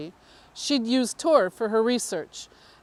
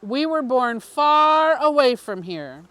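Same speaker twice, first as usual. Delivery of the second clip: louder, earnest voice for the councilman, slowing on key lines; confiding councilman, louder; 3 dB louder than usual. Acted. Councilman telling the reporter his secret origin, louder and earnest. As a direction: lean in and press the strange confession home.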